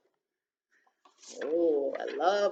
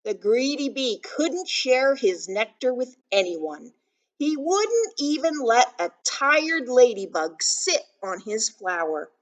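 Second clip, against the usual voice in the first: put-on louder, emphatic storytelling to children; picture book read-aloud; 4 semitones higher, 8 dB louder than usual. A narrator's reading. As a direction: read it out big for little listeners.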